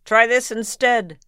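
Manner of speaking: high, very loud yell; the prince yelling before swinging his sword; yelled back. A narrator's reading. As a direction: fling it back as a threat. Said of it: "the prince yelled back".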